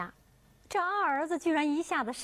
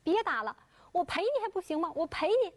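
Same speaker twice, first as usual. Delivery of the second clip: higher, desperate begging to stop; pleading; 6 semitones higher than usual. Acted. Beaten doctor begs the father to stop, pleading. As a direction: beg for mercy under the blows. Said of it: "不断地哀求".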